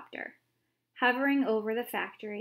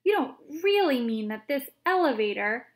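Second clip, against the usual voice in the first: louder, alarmed question; frightened shout; 3 semitones higher, 6 dB louder than usual. A narrator's reading. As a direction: shout in disbelief. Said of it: "shouted Grandpa Joe".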